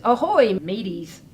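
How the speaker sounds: pirate voice. Acted. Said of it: "Pirate phrases such as".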